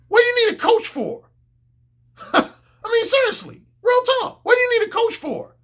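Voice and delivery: high, laughing disbelief; incredulous laughing. Real, not acted. Incredulous rhetorical question laughing.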